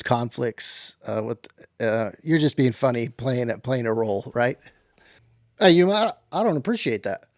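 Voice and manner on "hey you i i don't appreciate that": higher, mildly indignant protest; offended. Acted. Cowboy doubted by his podcast host, offended. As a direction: take mild offence at being doubted.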